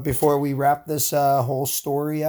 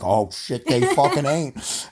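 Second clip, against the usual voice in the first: skit British reaction; slower than usual. Pretend. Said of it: "Let's do a skit".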